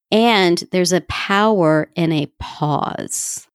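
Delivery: slow line, then a long held pause; slowed down to show a pause; deliberate pause. Shown as a demonstration. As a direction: let the silence land after pause. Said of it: "I just did a pause right there".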